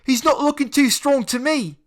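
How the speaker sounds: high, loud laughing taunt; mocking laugh from a bully; laughing jeer. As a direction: laugh it at him. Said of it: "Jordan laughed".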